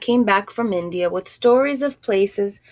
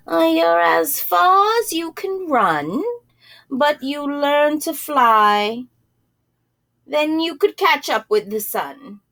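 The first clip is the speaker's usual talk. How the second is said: lightly voiced shop woman; 5 semitones higher than usual. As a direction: gently hand out the riddle.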